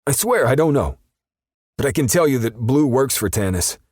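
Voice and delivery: very high, loud desperate plea; pleading perp. A narrator's reading. Perp begging Justice with the dog near, high and desperate. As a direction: beg them to believe you.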